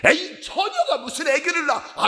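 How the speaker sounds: high, incredulous mock scoff; disbelieving skeptic. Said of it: "안 믿어진다니까". (못 믿겠다는 듯 높게 따지는 투)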